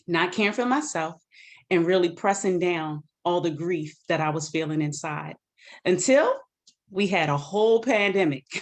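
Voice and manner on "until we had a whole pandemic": laughing it off mid-sentence; rueful laugh. Real, not acted. Speaker laughing at the pandemic's timing, rueful laugh.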